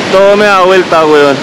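woozy and dizzy after spinning. Real, not acted. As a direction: talk like the room is spinning. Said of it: "me mareé".

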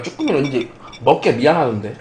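talking between bites; chewing while speaking; mouth full of pizza. Real, not acted. Seen 0: bites the pizza slice repeatedly while speaking, mouth busy throughout.

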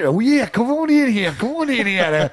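lightly voiced flirty barroom gal; flirty bar gal voice. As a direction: coax him in like a saloon gal, half laughing. Bar gal inviting him in.

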